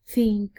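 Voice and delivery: "think" said slowly, tongue out for the th; th sound demo. Shown as a demonstration. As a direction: stretch the th of "think". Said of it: "producing such words".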